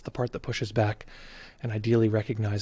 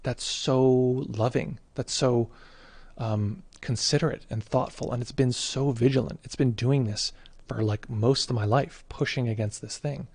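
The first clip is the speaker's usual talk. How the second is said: touched and amazed; slower than usual. Retold or imitated. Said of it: "it's like".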